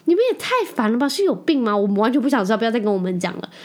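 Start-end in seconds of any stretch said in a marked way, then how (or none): 0.1-1.8 high, fast mock complaint; quick, higher exasperated tease; mock exasperation. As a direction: tease them for being annoying. Mother-in-law teased as annoying.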